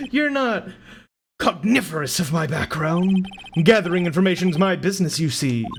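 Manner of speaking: pompous villain, swinging pitch after a chuckle; boastful villain. Acted. Villain boasting of gathering information, pompous and amused. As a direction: show off grandly to your victim.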